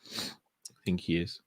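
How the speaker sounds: slow, low, soft Korg impression. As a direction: drawl it slowly like gentle Korg. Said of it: "he sounded like Gorg from the Thor movies".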